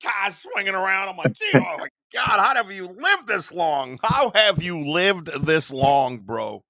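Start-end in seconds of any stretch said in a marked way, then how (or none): 1.3-6.6 retold disbelief. Retelling disbelief at reckless driver.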